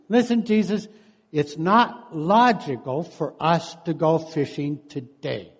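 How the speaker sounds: lightly voiced Peter pleading logic; Peter arguing with Jesus. Peter tells Jesus fishing makes no sense, mildly protesting. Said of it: "trying to tell Jesus".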